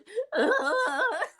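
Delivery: high, laughing fake wail; mock sobbing. Fan acting out her breakdown before the author, comic sobbing. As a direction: wail in imitation of your own blubbering.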